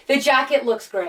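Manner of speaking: a hint of celebrity impression; a rapper. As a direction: lightly put on a star's voice. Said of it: "a rapper".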